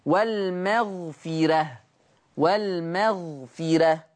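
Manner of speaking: very slow والمغفرة with a light, thin ra; softened ra. Shown as a demonstration. Teacher demonstrates tarqiq of ra, slow recitation. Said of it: "ترقيق الراء".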